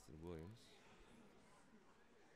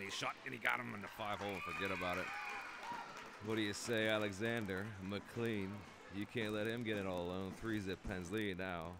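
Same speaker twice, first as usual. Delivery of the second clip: loud, higher call of a goal; excited goal call; 4 semitones higher, 10 dB louder than usual. Real, not acted. Commentator hailing the scorer to viewers, loud and thrilled. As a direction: celebrate the goal to the audience.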